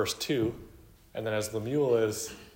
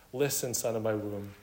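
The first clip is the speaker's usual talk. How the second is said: understated, gentle appeal to a son; tender motherly call. Acted. Mother urging her son to heed wisdom, gently tender. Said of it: "tender, motherly terms".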